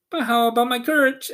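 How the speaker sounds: Lion asking Oz for courage. A narrator's reading. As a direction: rush the question out hopefully. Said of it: "asked the Lion".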